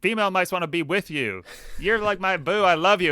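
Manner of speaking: lightly voiced sweetheart hyping someone up; mock pep talk. Cornflower hypes up crying Matthias, mock-adoring.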